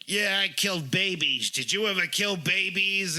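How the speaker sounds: retold yelling. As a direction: imitate a boastful quarrel without much volume. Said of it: "And, like, yelling".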